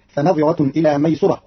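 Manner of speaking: ميسرة with damma on the sin, maysura; Qalun reading. Shown as a demonstration. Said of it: "فتصير".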